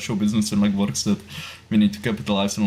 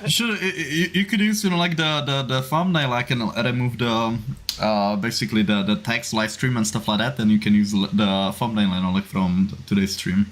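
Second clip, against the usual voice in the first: hurried, stumbling explanation with restarts; a little too fast. Real, not acted. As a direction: rush through it, tripping over fillers. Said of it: "you said that a little too fast".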